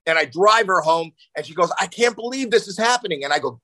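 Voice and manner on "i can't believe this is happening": very high imitated protest; mortified daughter. Daughter being driven home by dad, mock mortified disbelief. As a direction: act out an appalled kid, pitch way up.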